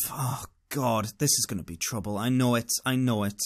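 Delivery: low, soft inner groan of worry; understated foreboding; resigned dread. Retold or imitated. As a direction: think it to yourself, quiet and sinking. Dreading inner thought acted out.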